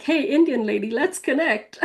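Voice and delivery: lightly imitated pointed invitation, pitch climbing at the end. Retelling how a new friend reached out in chat, pointedly. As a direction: quote her pointed opener, rising into amusement. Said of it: "very pointedly".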